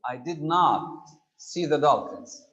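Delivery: slow, with "not" stressed; "not" pressed firmly in a slow negative; slow teaching read, "not" clearly stressed. Shown as a demonstration. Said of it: "Making a sentence negative".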